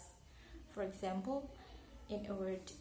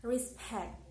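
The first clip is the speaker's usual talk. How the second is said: "Respect" with the second syllable louder and longer; stress on second syllable. Shown as a demonstration. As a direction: lean on the end of "Respect". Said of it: "because pact is louder".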